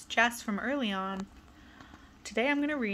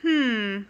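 thoughtful hmm; 3 semitones higher, 5 dB louder than usual. Acted. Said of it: "pondered Mister Happy".

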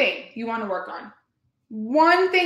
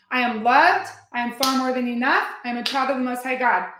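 repeated affirmation. Shown as a demonstration. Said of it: "you just say it over and over".

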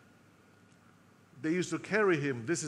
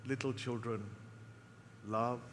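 put-on frail old man; 6 semitones lower, 9 dB quieter than usual. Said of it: "he would say this".

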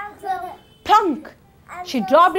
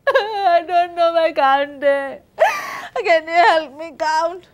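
high, whiny fake-sick spider; trickster tale voices; 8 semitones higher, 4 dB louder than usual. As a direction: plead like a sly trickster. Anansi pleading to hen.

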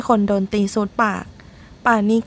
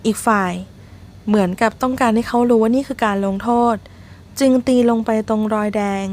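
usual speaking voice

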